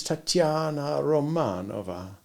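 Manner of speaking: "Tatiana" with the second A drawn out long, "Romanova" with the first A drawn out long; long A sounds. A narrator's reading. Tatiana introduces herself to Bond, "Tatiana" second A and "Romanova" first A held long. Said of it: "She sounded the second A of Tatiana and the first A of Romanova very long".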